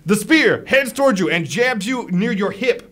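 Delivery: lively blow-by-blow storytelling; game master's action narration. Acted. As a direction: narrate the jab with punch. Game master narrates the spear attack.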